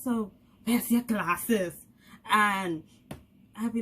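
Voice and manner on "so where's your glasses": mom's voice. Retold or imitated. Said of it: "she'd be like".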